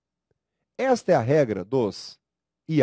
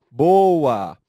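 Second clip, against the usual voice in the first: cheerful praise; 7 dB louder than usual. Real, not acted. Teacher praises after countdown.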